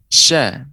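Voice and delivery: SHA with a clear sh and an open, thin a; letter shin demo. Shown as a demonstration. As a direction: sound out SHA as a single syllable. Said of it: "yang kedua huruf shin". (contoh huruf shin: sha yang tipis)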